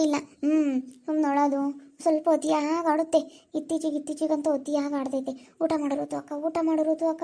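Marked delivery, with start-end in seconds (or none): 5.6-7.2 softer mock of a sulky reply; a touch of sulky mumbling; mimicking softly. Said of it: "ಅಂತ".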